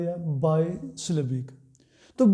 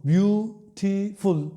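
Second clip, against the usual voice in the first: slow syllable demo; slower than usual. Shown as a demonstration. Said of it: "तीन syllables use हो रहे हैं".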